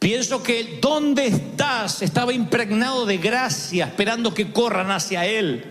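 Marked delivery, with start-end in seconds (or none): 0.8-2.0 slow, sorrowful where are you; sad tender call. Retold or imitated. Preacher imagines God calling Adam, sad and tender. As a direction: call out grieving, full of grace. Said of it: "la voz sonó triste".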